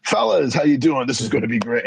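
cheerful host hailing the guys; hearty greeting. Retold or imitated. David Modell greeting them.

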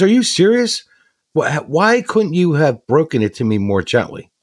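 shrill disbelief, then scolding; upset wife. Retold or imitated. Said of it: "She goes".

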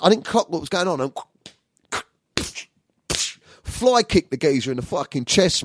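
ordinary talk, nothing marked

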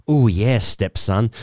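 slow, drawn-out imitation of a Yorkshire accent; thick Yorkshire accent. Storyteller recalling stepmom's voice, light Yorkshire accent. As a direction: lightly put on Yorkshire purr, taken slowly. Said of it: "in her thick Yorkshire accent".

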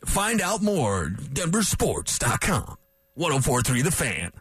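slow, booming radio announcer promo; big voice impression. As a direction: stretch it out like a station ID. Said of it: "That was my big voice impression".

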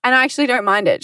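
light imitation of a gracious trainer; lightly voiced kind trainer; quoting trainer. Retelling trainer's kind Instagram story, lightly voiced. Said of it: "on her story, she actually said".

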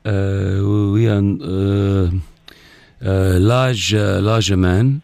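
put-on halting, accented official on the phone; put-on foreign security officer. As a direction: pose as a hesitant foreign security man. Prank caller poses as security.

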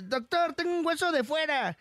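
joke-teller acting a patient's yell; mock shout. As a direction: call out to the doctor in mock alarm. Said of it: "bien gritando al doctor".

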